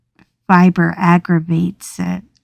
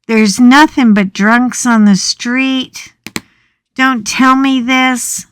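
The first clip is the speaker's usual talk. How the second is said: panicked protest; 4 semitones higher, 4 dB louder than usual. Retold or imitated. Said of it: "And I'm like".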